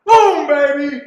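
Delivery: triumphant shout. Real, not acted. Horse wins, celebrating.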